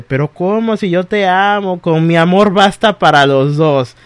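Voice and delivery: lightly acted clingy lover; pleading lost soul. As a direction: plead like a rejected ex. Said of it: "Y el alma en pena dice".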